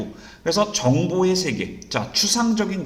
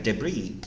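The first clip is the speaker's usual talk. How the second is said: "debris" as de-BREE, lower and softer repeat; American stress on I; 6 semitones lower, 7 dB quieter than usual. Shown as a demonstration. Teacher's last American "debris" for students, softer, final syllable stressed. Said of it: "I에 강세를 둡니다".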